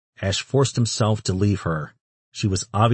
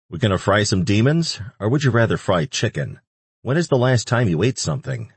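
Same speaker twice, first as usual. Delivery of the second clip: higher, playful angel voice; light teasing voice; 5 semitones higher than usual. Acted. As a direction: tease him brightly.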